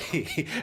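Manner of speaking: mimicked gloating snicker; imitated bully's giggle. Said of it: "he was looking at me like".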